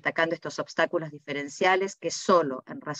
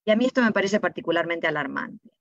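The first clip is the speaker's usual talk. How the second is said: ordinary talk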